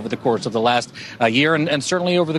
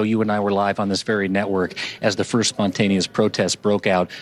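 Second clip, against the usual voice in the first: hushed, low golf commentator voice; golf announcer voice; 3 semitones lower than usual. Acted. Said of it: "I gotta do a little bit of a golf, uh, announcer voice".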